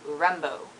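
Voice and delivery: Rimbaud said "rem-bo"; French pronunciation. Shown as a demonstration. Showing the French name, Rimbaud as "rem-bo". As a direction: drop the d, Rimbaud ending "bo". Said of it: "He's French, so it's".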